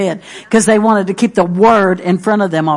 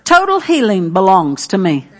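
spoken confession. Shown as a demonstration. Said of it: "you just go right along".

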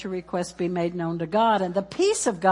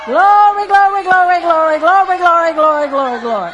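loud, high chant of praise; rousing preacher chant; preaching at full force; 8 semitones higher, 10 dB louder than usual. Acted. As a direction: lead the church in shouting praise.

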